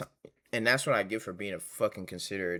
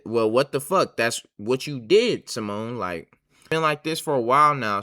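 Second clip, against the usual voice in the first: louder, heated retelling of his own angry reply; retold anger; 6 dB louder than usual. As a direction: replay the fight with real heat, a bit louder. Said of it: "Now I'm pissed".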